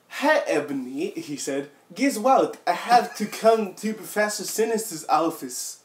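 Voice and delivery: Sirius voice. Acted. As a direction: play the silly vampire boy, half laughing. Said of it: "What was the voice I was doing".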